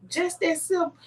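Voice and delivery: high, incredulous echo of the advice; retold questioning reaction. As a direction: repeat it back as a doubting question. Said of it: "And I'm like".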